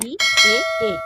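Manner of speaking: teacher demonstrating unrounded vowels; vowel demo. Shown as a demonstration. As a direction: sound the vowels ई, ए out boldly. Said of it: "जैसे अ".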